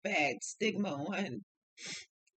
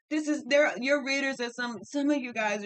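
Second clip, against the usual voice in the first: higher and louder, worked up; heated outburst; 5 semitones higher, 5 dB louder than usual. Real, not acted. Tarot reader blasting other readers, raised and higher. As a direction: let the frustration burst out.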